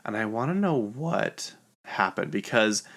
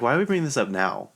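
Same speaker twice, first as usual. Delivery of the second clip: higher, quick protesting question; mock incredulous; 4 semitones higher, 4 dB louder, faster than usual. The girls objecting at the party, mock incredulous. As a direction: imitate friends objecting in a hurry.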